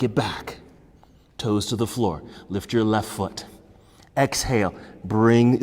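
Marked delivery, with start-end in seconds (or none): none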